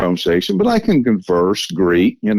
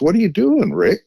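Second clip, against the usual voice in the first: quoted friend; 10 semitones higher than usual. Retold or imitated. Friend voiced in retold story.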